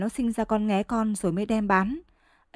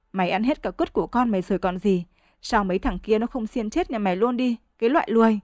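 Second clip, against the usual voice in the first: chửi chồng to tiếng, giọng chua loét; mắng xối xả, the thé và chua chát; chửi the thé chua ngoa. Acted. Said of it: "Giọng chị cứ the thé xong chua lè ra". (vợ chửi ngoa chồng và bố mẹ chồng, giọng the thé chua lè)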